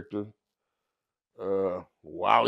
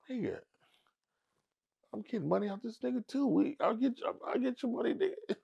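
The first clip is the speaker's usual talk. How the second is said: higher, softer conspiratorial aside; Suge's sly aside; 11 semitones higher, 7 dB quieter, faster than usual. Retold or imitated. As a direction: let him in on the scheme quietly. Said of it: "Suge looks at me like".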